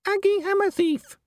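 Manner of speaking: very high, strained dwarf voice; struggling dwarf. A narrator's reading. Dwarf giving a name while held by the commander, strained and high. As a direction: squeeze it out while struggling in someone's grip. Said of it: "muttered the dwarf, struggling".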